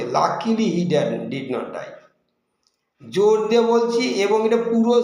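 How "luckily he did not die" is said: emphatic Luckily; stress on luckily. Shown as a demonstration. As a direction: lean on Luckily. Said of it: "লাকিলি আবার জোর দিয়ে বলছে".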